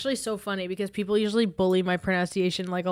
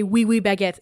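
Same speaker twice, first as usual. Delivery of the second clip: chirpy mock oui oui baguette; tossed-off tourist cliché; mock cliché French phrase; 5 dB louder than usual. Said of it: "people usually say".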